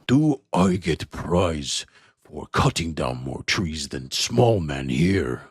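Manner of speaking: slow, broken-English brute; slow orc voice. Acted. Gromish asks the elf about a prize, slowly. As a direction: drag the words out like a simple brute. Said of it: "Gromish takes his, and he says".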